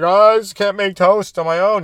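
high, whiny mock child voice; helpless kid. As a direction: whine like a kid who cannot cope. Mocking helpless ten-year-old.

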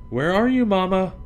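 high, loud searching call. Acted. Cub calling out to find her mama. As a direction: shout into the woods for her.

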